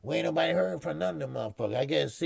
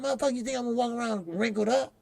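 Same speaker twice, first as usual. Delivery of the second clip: retold own retort; 10 semitones higher, much faster than usual. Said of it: "I said".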